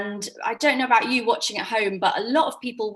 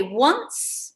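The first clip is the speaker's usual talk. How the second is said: staccato; 6 dB louder, much slower than usual. Shown as a demonstration. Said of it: "Word at a Time Story".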